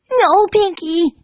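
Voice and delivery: high, slow pleading cry; terrified scream. Acted. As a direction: beg in terror. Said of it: "Dash screamed".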